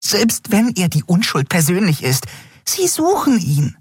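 hohe, aufgeregte Frauenstimme; hoch und empört, fassungslos; aufgebrachte Freundin. Acted. Nelen voiced high, agitated. (hohe, empörte Stimme der Freundin)

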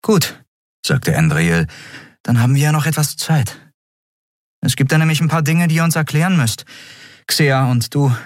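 eine Frau, höher gesprochen, fordernd; Andriel, bestimmt. A narrator's reading. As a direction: fordere die Antwort ein. Andriel spricht, hoher Ton. (Andriel fordert Erklärungen, bestimmt und höher)

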